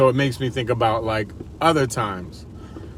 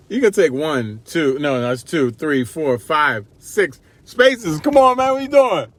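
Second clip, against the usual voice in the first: imitating wife; 4 semitones higher, 4 dB louder, slower than usual. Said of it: "She probably gets frustrated with me".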